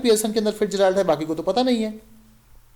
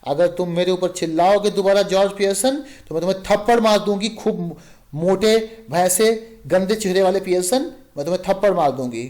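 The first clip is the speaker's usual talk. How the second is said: furious threat. Acted. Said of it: "खूब गुस्से में कहती हैं".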